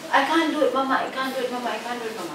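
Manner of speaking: put-on high whining little girl voice; a daughter whimpering that she can't; whiny child.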